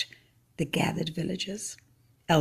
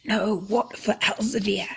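mild mock shout, a little higher; 5 semitones higher than usual. Villagers demanding revenge on Elzevir, mild shout. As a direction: crowd calling for revenge, understated. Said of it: "they shouted".

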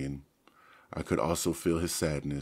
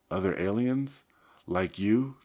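demanding; 4 semitones higher, 6 dB louder than usual. A narrator's reading. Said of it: "Tobias demanded".

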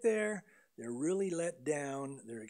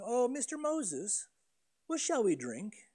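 a sweet, overly polite question, a little higher; sugary mock-polite "what shall we drink?"; mock polite asking; 5 semitones higher than usual. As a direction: ask Moses nicely, pretending to be courteous. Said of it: "don't think they're politely asking".

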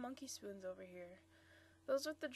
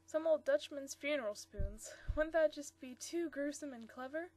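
eager, louder and higher; excited young woman; 3 semitones higher, 6 dB louder than usual. Acted. Marcia excitedly pitching her idea to Bob. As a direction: gush over your sudden idea.

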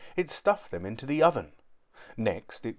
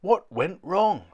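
groaning; 8 semitones higher, 5 dB louder, slower than usual. A narrator's reading. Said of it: "groaned Doohickey".

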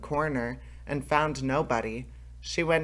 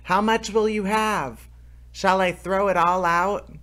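high, loud bawling shout; a tiny thief bawling on purpose; 7 semitones higher, 5 dB louder than usual. A narrator's reading. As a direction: bellow it to wake the house. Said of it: "bawled out again".

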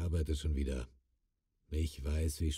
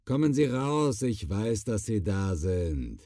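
deutlich höher, laut rufend; ruft hinaus; 5 semitones higher than usual. Acted. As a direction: den Eindringling aus dem Versteck rufen. Ruft den Eindringling heraus. (ruft den Eindringling aus dem Versteck, fordernd)

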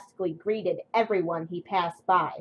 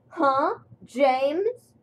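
a higher, surprised huh, rising; startled; 7 semitones higher, 3 dB louder than usual. A narrator's reading. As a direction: jump at the sound of his name.

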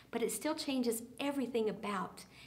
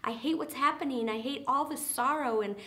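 higher, louder pleading to Jesus; begging leper; 4 semitones higher, 3 dB louder than usual. Retold or imitated. Preacher voicing a leper begging Jesus, raised pleading voice. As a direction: plead on your knees, desperate. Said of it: "Have any of us felt like we need to beg?".

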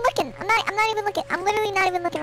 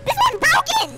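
frustrated complaint; 7 semitones higher than usual. Real, not acted. Trap button not working.

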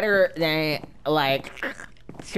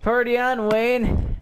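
higher, lightly put-on catchphrase; Garth Algar; 7 semitones higher than usual. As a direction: toss it out as a movie impression. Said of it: "sound like Garth Algar".

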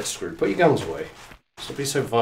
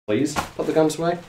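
higher, rising polite plea; pleading; 4 semitones higher than usual. Real, not acted. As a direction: coax with a questioning lilt. Repeats instruction as a plea.

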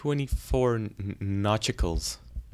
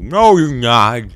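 game's voice; 2 semitones higher, 13 dB louder, slower than usual. Acted. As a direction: speak as the game itself. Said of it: "you're making this voice".

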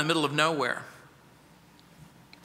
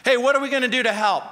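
higher, fast, anxious plea; worried disciples; 4 semitones higher, much faster than usual. Acted. Disciples fretting to Jesus, higher and hurried. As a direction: voice the disciples' panic about feeding everyone.

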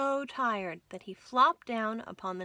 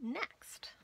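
whispered next; 5 semitones higher, 8 dB quieter than usual. Real, not acted. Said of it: "whispered transition".

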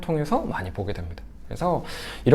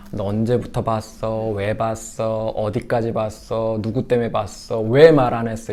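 interrogating parent; 3 semitones lower, slower than usual. Retold or imitated. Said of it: "이렇게 막 오당 콤보를 막 날릴 수 있어요".

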